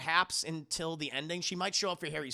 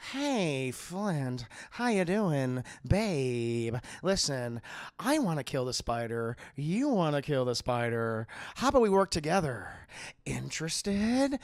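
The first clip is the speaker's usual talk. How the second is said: creepy smooth Venom; 4 semitones lower, slower than usual. Retold or imitated. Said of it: "gives him kind of like a".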